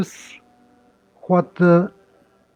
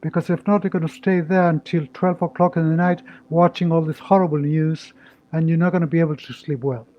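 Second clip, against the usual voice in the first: guided meditation. Acted. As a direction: ease them into calm. Leads a short meditation.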